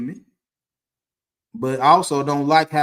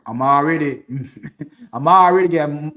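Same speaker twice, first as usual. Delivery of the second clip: chuckling as he talks; amused, laughing restart; laughing through words; 5 dB louder than usual. Real, not acted. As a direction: break into a laugh mid-phrase. Laughs while retelling.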